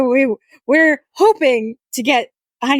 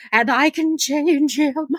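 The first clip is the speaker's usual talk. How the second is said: slow, knowing, higher mock line; ironic self-parody; 4 semitones higher, slower than usual. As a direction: say it like a naive romantic. Ironic quote of herself.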